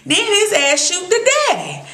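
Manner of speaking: normal talking voice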